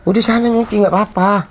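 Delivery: high, tearful urging; pretending to be fine through tears; holding back tears. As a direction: push her away while your voice cracks. Hides tears, sends wife away.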